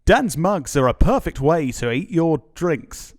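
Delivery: slow, loud formal announcer; formal advert voice. Acted. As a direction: read it like a posh ad. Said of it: "the more formal one".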